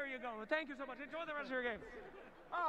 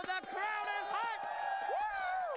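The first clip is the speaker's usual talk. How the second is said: hype shout; 2 semitones higher, much slower than usual. Real, not acted. Roving host hyping the crowd.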